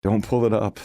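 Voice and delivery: teasing shout; playful yell. A narrator's reading. Leo teasing Sarah from his desk, playful yell. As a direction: call it out grinning. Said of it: "I yell with a smile".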